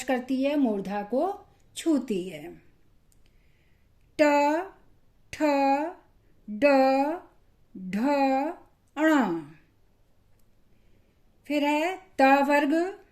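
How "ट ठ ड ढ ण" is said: ट ठ ड ढ ण said with the tongue curled back, one at a time; careful letter-by-letter demo; retroflex consonants demo. Shown as a demonstration. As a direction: sound out each retroflex slowly for the class. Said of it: "इसको जब हम बोलते हैं".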